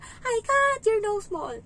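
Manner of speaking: put-on high, loud, slow kid's taunt; child's angry taunt. The angry child yelling at the nanny, high, loud and slow. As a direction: yell it slowly like an angry little kid. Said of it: "Sigaw niya".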